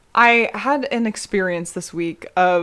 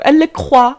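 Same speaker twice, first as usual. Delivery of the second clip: higher, louder fake French flourish; mock French accent; 4 semitones higher, 8 dB louder than usual. Host dressing up her drink's name, mock French accent.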